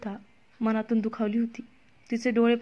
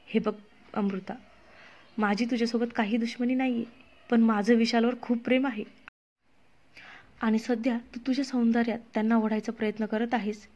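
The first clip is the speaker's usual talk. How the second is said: calmly. Acted. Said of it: "Priya आता शांतपणे म्हणाली".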